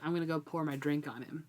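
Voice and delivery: whispering Locke's petty plan; mock whisper. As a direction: hush it like a sneaky aside. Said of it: "and he's like".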